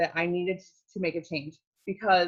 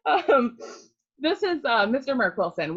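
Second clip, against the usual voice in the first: crying; 6 semitones higher, 3 dB louder than usual. Real, not acted. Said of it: "I can't believe I'm crying like this".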